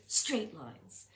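even, level pitch with no wobble; steady one-note delivery; straight voice. Shown as a demonstration. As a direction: say it flat like a ruler line. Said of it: "Do you hear my pattern?".

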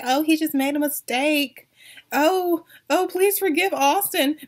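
mocking whine. Mocking fans' excuses for Austin.

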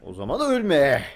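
slow, drawn-out dubbing voice; turkish cartoon dub. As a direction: deliver it like a dramatic movie dub. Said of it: "Wow, dublaj sesi".

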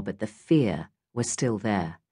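plain reading voice

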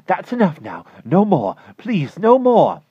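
very high and loud, slowing on the last plea; high anguished plea. Acted. Klausner begging his neighbor to stop cutting roses, anguished. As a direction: beg her to stop, voice straining. Klausner stops her at fence.

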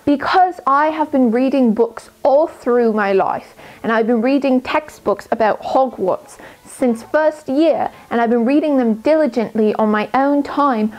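clumsy put-on British accent, uneven throughout; earnest study-tips talk in an amateur British accent; bad British accent. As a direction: play a bookish schoolgirl in a weak British accent. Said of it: "my British accent was horrendous".

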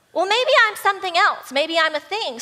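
sudden new idea. Acted. Voicing bird's sudden new idea.

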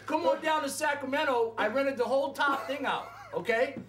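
calling out with a laugh; excited shout. Retold or imitated. Lottery winner calling his friend down to Sacramento, excited shout.

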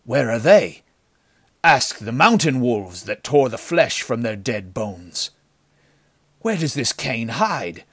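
heated arguing. A narrator's reading. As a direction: argue back with mounting agitation. Henchman argues heatedly with leader.

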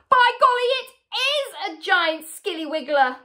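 loud exclamation, starting very high; mock alarm. A narrator's reading. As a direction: cry out as if making a horrifying discovery. Husband mock-alarms his screaming wife.

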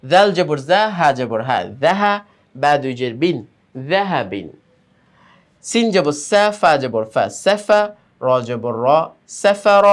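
sing-song letter-by-letter chant, pitch rising and falling; spelling drill recitation. Shown as a demonstration. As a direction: chant each spelling, then join the syllables. (সুর করে বানান করে পড়া)

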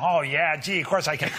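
put-on childish American accent. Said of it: "do your American accent".

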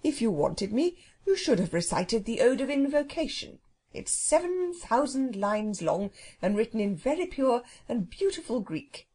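lightly voiced stately bird character; a touch of leisurely self-importance; polite, grand phoenix. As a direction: politely lecture as a proud phoenix.

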